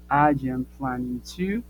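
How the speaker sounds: drawn-out demonstration, held on "to"; slow model phrase. Shown as a demonstration. Teacher modelling the first-person answer, slow and deliberate. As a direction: stretch each word for learners. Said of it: "y entonces digo".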